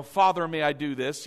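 mildly stiff, formal request; lightly put-on formality; mock formal. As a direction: ask permission with exaggerated propriety. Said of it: "most of us don't talk like that".

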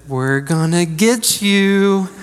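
slow, teasing little threat; a gleeful toddler spoiling the surprise; mock menacing. Three-year-old telling mom she's coming for her, slow mock menace. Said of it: "with the most menacing, sadistic grin".

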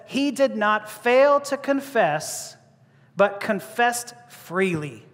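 FAIL and FREELY stressed, very slow; emphatic scripture reading. Shown as a demonstration. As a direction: read slowly, weighting FAIL and FREELY. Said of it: "Emphasizing both here".

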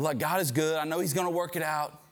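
assured statement, slightly lifted pitch; confident faith. Acted. Husband telling his wife about a bad day, confident. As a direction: say it with easy certainty. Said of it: "you start saying it".

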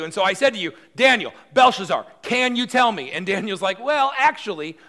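high, loud, exasperated rant; king fed up with being passed around; furious king. Acted. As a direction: boil over at the runaround. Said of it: "his blood is starting to boil".

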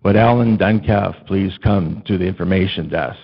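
a hint of measured announcer voice; loudspeaker announcement. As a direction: page a lost child over the store system. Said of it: "I hear my name over the loudspeaker".

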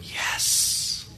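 whispered relieved yes. Retold or imitated. Elisha relieved as the child wakes, whispering. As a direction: breathe a secret yes. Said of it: "Elisha was going".

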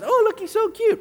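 put-on cooing over a baby. Egyptians cooing over little baby Moses, high and gushing. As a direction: coo like someone melting over a baby.

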